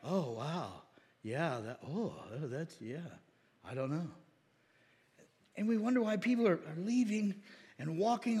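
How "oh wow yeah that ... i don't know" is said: low, quiet, dazed mock of a stumped Christian; stumped believer. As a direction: lightly play the believer lost for answers. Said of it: "and they're like".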